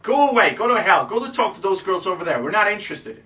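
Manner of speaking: high, loud, shooing you away; bitchy girl. Retold or imitated. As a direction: send him off like a snooty girl, high and loud. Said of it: "if she's saying".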